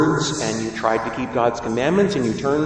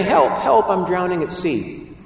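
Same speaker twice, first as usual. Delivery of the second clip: cry for help; 4 semitones higher than usual. Retold or imitated. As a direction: call out as if drowning. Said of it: "You say".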